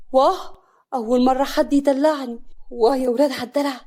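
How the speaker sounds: loud, high-pitched thrill; delighted amazement. Acted. Smitten man getting his first pet name, delighted amazement. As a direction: exclaim with giddy pleasure.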